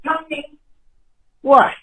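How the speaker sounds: protective wife snapping down the phone; a fed-up Carmela-type wife warning off the caller; wife cutting in on the call, firm and annoyed; angry wife. Acted. Caller voices the mob boss's wife.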